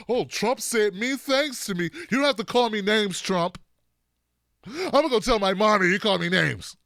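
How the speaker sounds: whiny mock complaint; mild mock whining; petty whiner. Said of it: "He sounded petty and weak".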